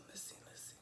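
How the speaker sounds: hushed, conspiratorial aside; scheming whisper. Retold or imitated. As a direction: whisper it like a plotting enemy. The enemy scheming against her.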